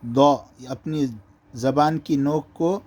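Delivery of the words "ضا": دو said as a thick, rounded emphatic d; heavy ضا. Shown as a demonstration. Teacher isolating the sound, دو thick and rounded. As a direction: press the tongue side for a full دو. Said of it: "موٹا پڑھنے".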